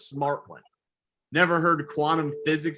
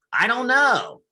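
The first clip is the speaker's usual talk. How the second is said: flat answer; 9 semitones higher, 4 dB louder, slower than usual. Retold or imitated. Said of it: "she'd be like".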